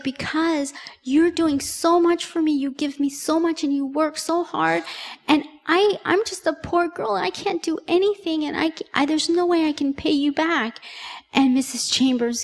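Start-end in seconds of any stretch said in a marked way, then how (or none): 0.0-10.8 a hint of a crying young woman; tearful girl. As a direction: voice the guilty young girl close to tears, lightly. Guilty girl crying in attic.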